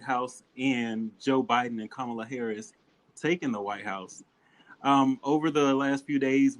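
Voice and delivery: polished broadcast welcome, slowed on key phrases; news anchor voice. Acted. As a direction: open the show like a TV newscaster. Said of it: "what's that news anchor voice you got".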